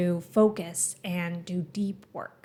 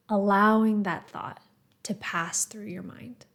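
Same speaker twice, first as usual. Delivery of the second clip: calm, measured guiding voice with pauses between phrases; guided meditation. Acted. Meditation teacher guiding listeners to the breath, calm and measured. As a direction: gently lead a meditation, leaving space after each phrase.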